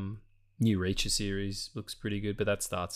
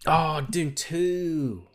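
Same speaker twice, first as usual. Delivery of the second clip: excited; 6 semitones higher, much slower than usual. Real, not acted. Enthusiastic reaction to Dune two.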